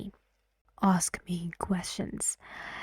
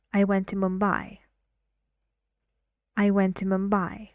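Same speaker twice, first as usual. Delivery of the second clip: I went to Mumbai, Mumbai louder and longer, falling; stress and falling tune; faster than usual. Shown as a demonstration. Teacher models stressed falling answer for students. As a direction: lean on Mumbai and let it fall. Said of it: "I say the stressed part louder".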